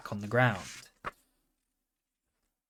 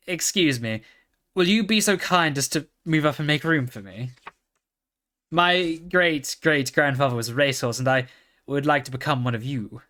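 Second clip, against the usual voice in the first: polite pony; 2 semitones higher, 3 dB louder than usual. Acted. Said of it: "as politely as before".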